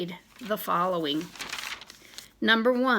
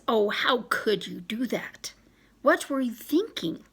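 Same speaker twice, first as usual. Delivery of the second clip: scolding friend. Retold or imitated. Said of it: "She scolds you and says".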